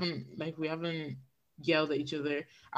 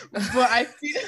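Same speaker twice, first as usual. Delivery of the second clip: a burp catching the words; 3 semitones higher, slower than usual. Real, not acted. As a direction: push the line out past a burp. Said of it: "I keep burping".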